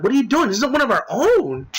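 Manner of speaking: high-pitched, disbelieving mock outcry; imitated protest. Guy challenges Joe over one of their own, imitated high protest. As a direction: imitate someone protesting in alarm. Acts out companion's shocked protest.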